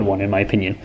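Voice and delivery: mic bumped mid-phrase. Real, not acted. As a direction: voice dips as the mic gets knocked. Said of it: "Sorry, I hit the mic again".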